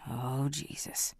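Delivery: soft, slow, hushed; stunned drinker whispering at the news; whispered. Acted. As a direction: breathe it out in shock. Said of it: "Smith whispered".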